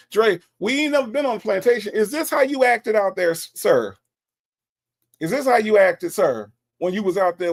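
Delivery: high, rapid scolding questions; mock indignation. Host grilling Dre about plantation behaviour, mock indignant. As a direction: pitch it up in mock disbelief.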